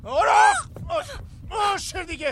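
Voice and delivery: put-on restraining the girl and shouting at her to calm down; shouted order. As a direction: bark it over her struggle.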